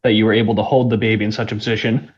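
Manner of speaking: out of breath after rushing rooms. Real, not acted. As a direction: talk while catching your breath. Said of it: "Sorry, I'm just catching my breath".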